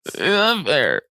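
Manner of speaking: high, put-on whining; mock whine.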